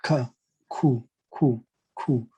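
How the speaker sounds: Q said as "koo", with a K; German K sound. Shown as a demonstration. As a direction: Q repeated as a short "koo". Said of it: "you usually pronounce it as a K".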